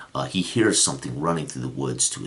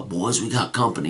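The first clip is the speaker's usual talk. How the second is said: raised, higher call to the hill; yelling to his boys; 7 semitones higher than usual. Retold or imitated. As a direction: shout a warning up to the others. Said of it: "yells out".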